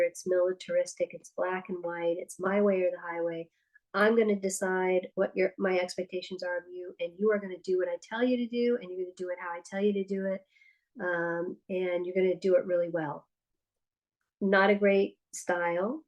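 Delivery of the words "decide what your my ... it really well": fast, bossy parent laying down orders; authoritarian parent. Retold or imitated. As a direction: rattle off the rules like a strict parent. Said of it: "the authoritarian style".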